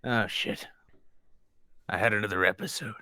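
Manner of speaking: high, stunned and confused; dumbfounded. Pretend. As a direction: act baffled, then sheepish. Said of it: "I'll just be dumbfounded".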